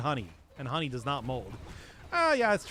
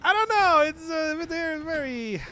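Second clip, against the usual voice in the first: loud, high, fed-up cry; exasperated outburst; 12 semitones higher, 7 dB louder, slower than usual. Real, not acted. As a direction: blurt it out in disbelief. Exasperated about raw chicken.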